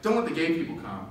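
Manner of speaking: a mock self-righteous church voice rattling off rules; imitating gatekeeping church members; mocking churches. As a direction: sneer out the exclusion list. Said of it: "churches are like".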